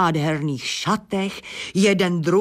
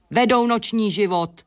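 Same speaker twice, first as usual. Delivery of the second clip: a touch higher, grumpy squeaky bat; grumpy squeak; 4 semitones higher than usual. Acted. Bat snaps grumpily at the nosy hen, lightly squeaky. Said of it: "pískl nevrle netopýr".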